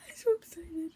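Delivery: breathy whispered thrill; excited whisper. Real, not acted. Vlogger whispering over the open palette, excited whisper.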